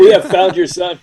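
a hint of a creepy kidnapper; calmly menacing reply; sinister manager. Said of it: "as if we're the pyramid managers".

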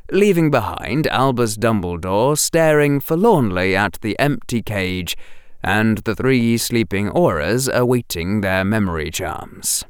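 ordinary delivery

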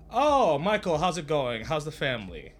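put-on bright, loud friendly hello to an old pal; high excited hello; cheery greeting. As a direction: greet him like a long-lost friend.

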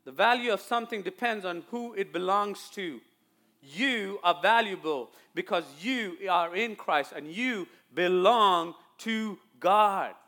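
measured, stressed sermon delivery; slow into a weighty final phrase; emphatic preaching. Real, not acted. Preaches to the congregation.

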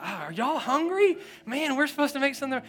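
high, loud, calling to the kitchen; flustered host shouting to wife Adriana. Pretend. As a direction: call out to the wife in a panic.

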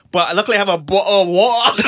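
exaggerated British accent with dropped t's; mock British accent. Guest joking about his water, mock British accent.

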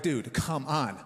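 a muttered, mildly annoyed "come on"; lightly fed up, mostly under the breath; mild annoyance. Retold or imitated. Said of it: "I was like".

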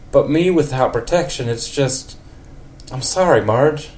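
a hint of a country neighbour. In a country accent, Ned tells Marge it was wonderful. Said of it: "a super country voice for Ned".

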